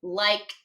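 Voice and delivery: liked said slowly, the ending d drawn out to hear a t; stretched sound check. Shown as a demonstration. Teacher sounding out a word for spelling, drawn out. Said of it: "and then I hear liked".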